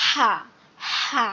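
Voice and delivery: হা squeezed from mid-throat; squeezed-throat pronunciation. Shown as a demonstration. Teacher repeats the big ha for students, tight-throated হা. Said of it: "আমাদের গলাটা চেপে উচ্চারণ করতে হবে".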